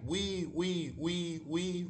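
put-on high piggy squeals for the kids. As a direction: squeak like a little pig. Piggy squeals in nursery rhyme.

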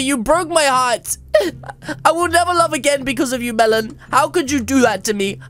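hammed-up crying over his pet; fake-weep the betrayal; dumped by his pet, he hams up a sob; mock heartbroken sobbing. Fake heartbreak after pet rejects him.

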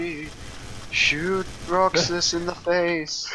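slow, drawn-out spooky ghost voice; ghostly voice. Pretend. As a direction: moan it like a haunting ghost. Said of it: "I did it in a ghostly voice".

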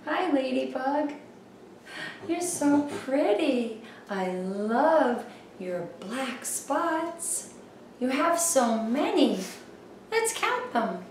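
gentle, hushed talk to a toy; soft and sweet. Real, not acted. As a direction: coo softly to a little bug. Talking sweetly to toy ladybug.

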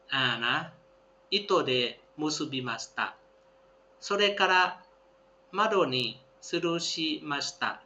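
careful classroom read-aloud; slow textbook reading. Shown as a demonstration. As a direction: read each phrase slowly and clearly for learners. Reads Japanese text aloud.

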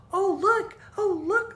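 put-on high, loud excited cry of a little girl; child squealing with delight, high and loud; excited shout. A narrator's reading. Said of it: "Laura shouted".

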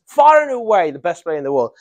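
FAR AND AWAY punched at the start; emphatic superlative. Shown as a demonstration. Teacher putting the phrase into a sentence, emphatically. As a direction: lean hard on "Far and away", then run on. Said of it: "more emphasis".

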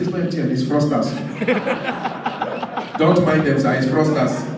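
loud, emphatic warning it's fraudsters; urgent caller setting the policeman straight; insistent. Retold or imitated. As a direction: press the point hard. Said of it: "I said".

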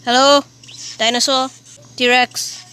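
loud rising hello; loud call. Real, not acted. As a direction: call out loudly. Calling out into the dark.

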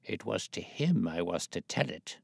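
put-on stubborn, petulant old man; a hint of a stubborn old man. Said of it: "petulant obstinacy of a very old man".

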